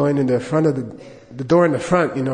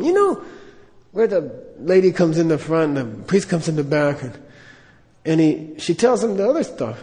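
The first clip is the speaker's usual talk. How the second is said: curious Lama. Retold or imitated. Lama asking the priest for the other room, curious. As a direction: look around puzzled. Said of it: "Lama voiced".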